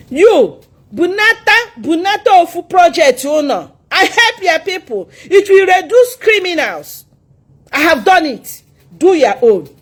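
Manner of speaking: high, forceful confrontation; heated retort. Real, not acted. Confronting a critic about the people she helps, heatedly. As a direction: throw it back at your critic.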